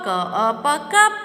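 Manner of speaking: "ka, a, pa" joined into "cup", rising on "cup"; blending sounds. Shown as a demonstration. Teacher blending "ka, a, pa" into "cup" for pupils. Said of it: "C says ka".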